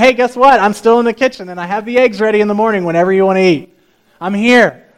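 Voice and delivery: emphatic acted parent, loud; insistent parent. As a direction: call it out to a sulking child. Parent voiced to a sulking child.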